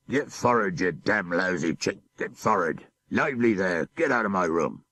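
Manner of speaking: barked orders from a brutal captain; captain's harsh order. Acted. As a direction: bark it like a cruel sea captain. Captain bellowing at cowering sailor.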